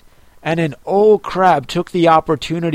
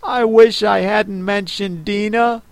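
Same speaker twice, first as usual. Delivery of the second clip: sad tone; 5 semitones higher than usual. Acted. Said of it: "in a sad tone".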